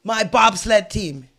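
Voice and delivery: slow, insistent Jamaican voice; Jamaican accent attempt. Recruiter insists friend join the bobsled team, Jamaican accent. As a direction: press the point in a Jamaican accent. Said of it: "Don't judge me on my accent".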